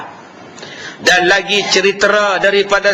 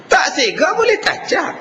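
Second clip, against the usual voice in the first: mock wail; 9 semitones higher than usual. Mock complaint about unhandsome husband.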